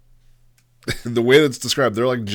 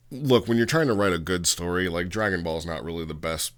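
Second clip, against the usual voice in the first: ordinary talk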